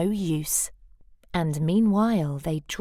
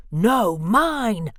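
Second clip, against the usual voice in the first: louder hollered reply; hollering; 5 dB louder than usual. Acted. Bruce hollering back at Cyril. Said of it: "hollered Bruce".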